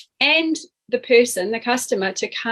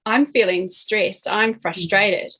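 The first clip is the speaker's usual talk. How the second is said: slow, even, steady; calm; slower than usual. Shown as a demonstration. Coach demonstrating the right, calm way to self-talk, slow and even. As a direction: state it slowly and calmly. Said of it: "It's more".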